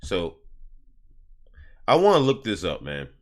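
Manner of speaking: a hint of reading off a phone, barely voiced; muttering to self. Real, not acted. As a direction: mumble the search terms under your breath. Muttering while typing a search.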